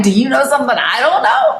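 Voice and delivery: retold puzzlement, probing for an answer; curious. Niece questioning her uncle's certainty, curious. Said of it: "I'm a little curious".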